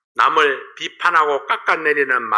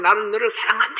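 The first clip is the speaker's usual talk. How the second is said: echo; 8 semitones higher than usual. Retold or imitated. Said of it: "하는 메아리가".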